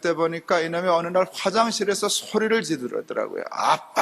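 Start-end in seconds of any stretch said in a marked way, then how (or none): 3.5-4.0 imitated kid yelling for Dad; retold child's yell. Young son calls Dad from the bathroom, mock yell. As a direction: call out like a small boy hollering. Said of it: "버럭 소리를 질러요".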